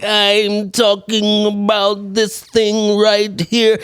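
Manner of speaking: slow, lightly voiced old man. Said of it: "his old man voice is coming in".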